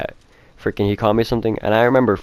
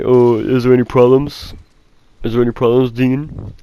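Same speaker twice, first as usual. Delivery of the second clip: higher, put-on voice questioning the dean; mock-innocent bully; 3 semitones higher, 4 dB louder than usual. Bully addressing the dean after being caught, mock innocent. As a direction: imitate a kid playing innocent, pitched up.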